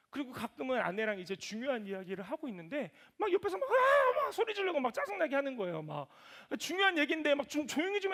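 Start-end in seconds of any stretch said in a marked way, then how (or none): 3.7-4.2 sudden very high loud shriek; imitating a toddler's shriek, high and loud; mock toddler shriek. Daughter screaming beside them.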